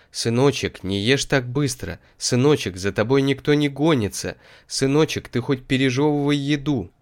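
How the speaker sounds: lightly voiced nagging mother; gently scolding mum; mother's voice. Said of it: "Мама в детстве всё повторяла". (голос заботливой мамы)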